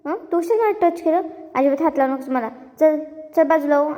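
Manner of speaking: mild retold yelling. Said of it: "तिच्याच उलटं ओ-, ओरडते".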